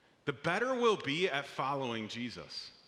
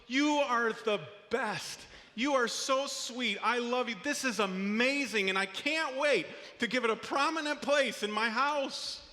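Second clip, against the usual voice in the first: gushing praise; 5 semitones higher than usual. Retold or imitated. Gushing praise of child's drawing.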